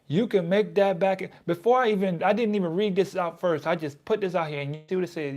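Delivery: giddy, amazed aside; excited disbelief. Real, not acted. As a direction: point it out with amazement.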